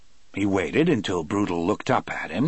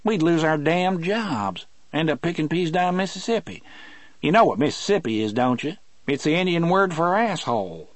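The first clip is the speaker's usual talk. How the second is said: gruff prison guard; 8 semitones higher than usual. Acted. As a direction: voice a grumbling Southern guard. Guard Harry's voice in story.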